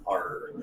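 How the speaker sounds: mock pirate growl arr. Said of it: "like a pirate then".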